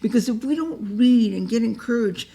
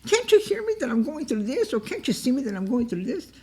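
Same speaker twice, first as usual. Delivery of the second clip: high, pleading mock cry; crying out to God; 5 semitones higher than usual. Preacher voices a troubled believer, crying out to God. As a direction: act out a troubled plea to God. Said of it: "You're crying out to him".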